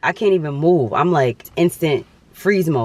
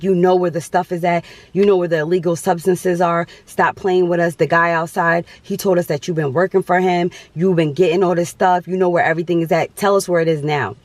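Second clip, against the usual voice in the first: mildly raised, insistent officer voice; retold interrogation; 3 semitones higher, 3 dB louder than usual. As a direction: press them hard, imitating police demanding answers. Imitating officers interrogating her.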